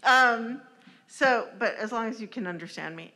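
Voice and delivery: talking through a face mask; muffled by mask. Real, not acted. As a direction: speak muffled behind a mask. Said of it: "Can you understand me through the mask?".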